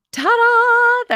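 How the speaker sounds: high, loud ta-da reveal; triumphant ta-da. Real, not acted. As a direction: announce it like a magic trick. Mic finally plugged in, triumphant.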